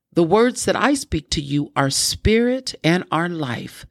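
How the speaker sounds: measured, slightly lifted reading voice; scripture reading. Real, not acted. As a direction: read the verse out deliberately, phrase by phrase. Reads scripture aloud.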